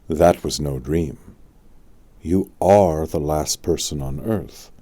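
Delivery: put-on an old wizard doubting the word; a hint of a knowing old man; Merlin. Merlin answers Arthur.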